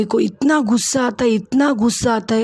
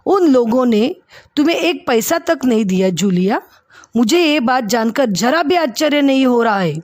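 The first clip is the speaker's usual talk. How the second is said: mildly angry, higher disbelief; bitter indignant question; angrier; 3 semitones higher, faster than usual. Acted. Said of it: "और गुस्से में". (ऊँची आवाज़ में हल्का गुस्सा और अविश्वास)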